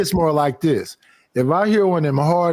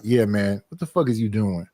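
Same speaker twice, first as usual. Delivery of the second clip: gruff confrontation; 8 semitones lower, 5 dB quieter than usual. Retold or imitated. His own stepping-in voice.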